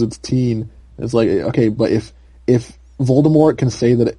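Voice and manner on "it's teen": put-on "teen" with a long ee; "teen" rhyming with seen; teen pronunciation. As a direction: say "teen" as the insisted-on ending. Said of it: "that's what the pronunciation is".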